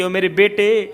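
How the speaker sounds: crying out. Acted. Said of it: "رو کر کہنے لگی، چیخ کر کہنے لگی".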